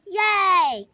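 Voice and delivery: bright happy cheer. Pretend. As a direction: cheer like a kid. Doll cheers.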